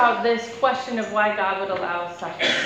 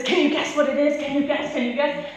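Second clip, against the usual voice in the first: excited little brother; 3 semitones higher than usual. Retold or imitated. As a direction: pester her gleefully with the question. He's super excited.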